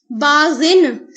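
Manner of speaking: باغن stretched very slowly; slow Arabic recitation. Shown as a demonstration. Teacher to students, slowly reciting باغن. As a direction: sound out باغن syllable by syllable. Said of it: "سرکشی کرنے والا ہو".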